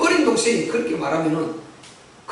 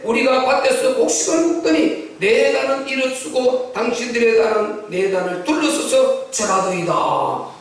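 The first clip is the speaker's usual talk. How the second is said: scripture reading. A narrator's reading. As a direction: intone the verse to its last syllable. (끝을 길게 끄는 성경 봉독)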